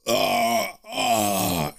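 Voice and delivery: rough, drawn-out mock yell. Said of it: "he begins to yell".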